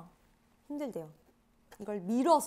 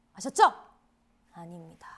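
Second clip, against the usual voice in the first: hushed teasing whisper; 6 semitones lower, 6 dB louder than usual. Real, not acted. Telling fans about a limited edition, in a teasing whisper. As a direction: whisper it like a secret.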